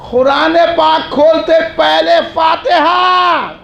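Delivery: rhythmic, rallying sermon chant; preaching litany. Real, not acted. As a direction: build a list, landing each refrain.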